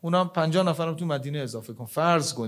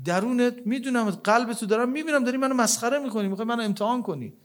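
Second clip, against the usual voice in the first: rebuking host; 6 semitones higher than usual. Acted. Host rebukes the fake beggar.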